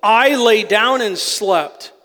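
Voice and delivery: slow, emphatic scripture quote; preaching to himself. Retold or imitated. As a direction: proclaim it deliberately, as self-persuasion. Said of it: "almost like he's preaching to himself".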